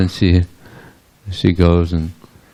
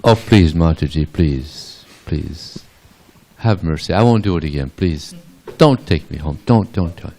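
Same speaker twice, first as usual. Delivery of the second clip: mock pleading. Caught child begging the old gopi, pleading. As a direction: plead lightly, voice sinking on each please. Krishna begs the gopi for mercy.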